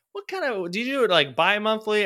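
high, prying mock salesman voice; salesman imitation. Mimicking the pest control salesman at the door, high and nosy. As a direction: squeak out the nosy question. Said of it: "He goes".

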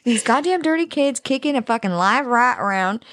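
lightly put-on redneck twang; Southern redneck accent. Co-host echoes the story, light Southern accent. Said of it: "can't say that shit without an accent".

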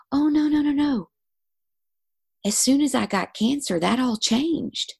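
high, insistent no no; eager denial. Retold or imitated. Client defending her husband, high insistent denial.

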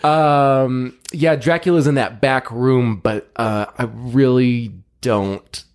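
lightly voiced greasy vampire; slow lazy vampire drawl. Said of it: "your vampire voice".

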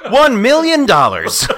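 proud and laughing. Retold or imitated. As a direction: blurt it out through laughter. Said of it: "And he was like".

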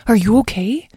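high, timid child's question, voiced; nervous whisper. A narrator's reading. Young dragon checks on his weary mother, nervous high voice. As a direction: ask with worry in a small high voice. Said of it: "Lyle whispered nervously".

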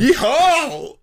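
high, loud cowboy whoop; rebel yell. Shown as a demonstration. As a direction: let out a wild yeehaw. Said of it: "It's like yeehaw".

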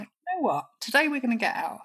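quick, lifted decisive promise; firm promise. Retold or imitated. Adult self promising inner child, quick and firm. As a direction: reassure her decisively. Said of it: "And I'm like".

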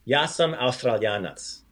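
slow model, Australianac kept forward in the mouth; front-of-mouth sounds. Shown as a demonstration. Teacher fixing mouth placement, front-placed sounds in Australianac. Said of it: "sounds are at the front of your mouth".

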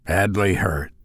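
low, soft, grave answer; quiet. A narrator's reading. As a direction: break bad news quietly. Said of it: "he said quietly".

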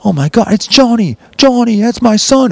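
acted-out dad recognising his son; amazed proud father. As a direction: cry out in delighted disbelief.

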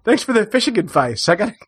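high, chirpy get-me-out-of-here thanks; mock polite exit. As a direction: brightly back away from the crazy man. Excusing himself from the old man.

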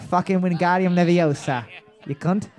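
mock sweary Liverpool wizard; Liverpool accent. Host imagining Harry Potter from Liverpool, mock accent. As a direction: cast a spell in a put-on Liverpool accent. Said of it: "every single one of them was from Liverpool".

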